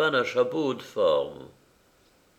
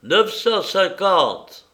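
slow, loud, higher bid; clearly articulated; 9 semitones higher, 7 dB louder, much slower than usual. A narrator's reading. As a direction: spell out each syllable. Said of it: "une voix articula". (articulé lentement)

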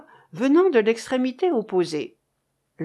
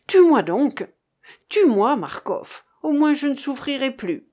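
loud, anguished plea, torn apart; heartrending cry; 4 semitones higher, 5 dB louder than usual. A narrator's reading. Young sailor begging his captain, loud heartrending cry. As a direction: cry it out as if in pain. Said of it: "l'accent déchirant".

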